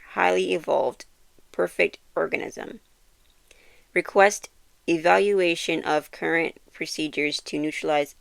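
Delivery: stiff robotic reading. Acted. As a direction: read it like a flat computer voice. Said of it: "I feel like I read that like a robot".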